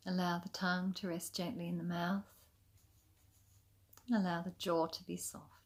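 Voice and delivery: calm, unhurried yoga nidra guidance with long pauses; soothing, even meditation voice; guided meditation. Acted. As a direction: gently lead them into rest, leaving space between phrases. Guides a relaxation practice.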